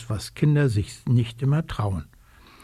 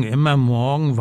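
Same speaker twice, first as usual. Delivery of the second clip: whining raven. Acted. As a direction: let the whine sag. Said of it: "quengelt Socke".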